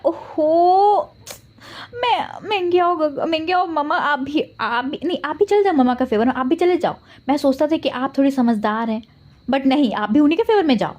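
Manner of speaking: put-on high, whining child's protest; whiny kid. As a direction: complain like a betrayed ten-year-old. Kid complains parents gang up. (ऊँची आवाज़ में शिकायत करता बच्चा)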